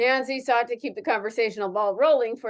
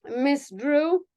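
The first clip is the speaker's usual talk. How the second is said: put-on Russian Ukrainian accent; 4 semitones higher than usual. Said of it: "like a, sort of Russian Ukrainian accent".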